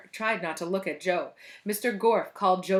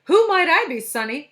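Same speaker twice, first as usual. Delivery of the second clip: put-on high, loud old granny voice; cackling grandmother; 8 semitones higher, 10 dB louder than usual. A narrator's reading. Paul has got a grandmother's voice, cackling. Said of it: "He sounded like somebody's grandmother".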